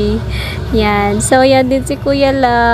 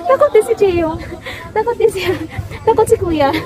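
high teasing words through real laughter; giggling, pitched up; laughing; 7 semitones higher, faster than usual. Real, not acted. Laughing at scared child.

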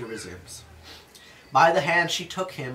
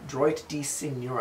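slow, careful bad French accent; slower than usual. Shown as a demonstration. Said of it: "I have a terrible French accent".

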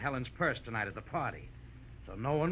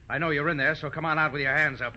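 calling out; 5 dB louder than usual. Acted. Killer calls into the hothouse.

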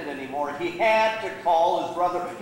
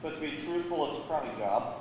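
soft, low, deflated; subdued admission; 3 semitones lower, 8 dB quieter than usual. Acted. Younger brother admitting his poor state, subdued. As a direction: own up quietly.

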